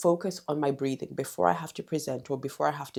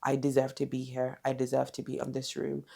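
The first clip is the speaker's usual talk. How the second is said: calm self-talk; 3 semitones lower, 4 dB quieter than usual. Retold or imitated. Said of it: "it brings me back to".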